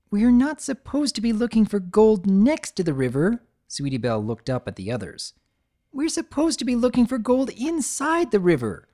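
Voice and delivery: filly revealing the trick; eager filly. Acted. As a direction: share the big secret proudly. Sweetie explains discovery.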